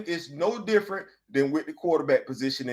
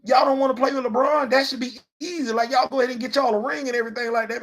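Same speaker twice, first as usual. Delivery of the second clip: imitated player; 6 semitones higher than usual. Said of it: "you be seeing yourself be like".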